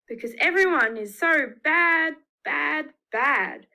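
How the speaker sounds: a stern God, booming out; God scolding loudly about the bad people. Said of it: "said God".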